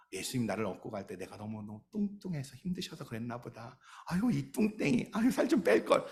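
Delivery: mock sighing at oneself, pitch climbing; self-mocking lament. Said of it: "그러면서 막 그렇게 했는데".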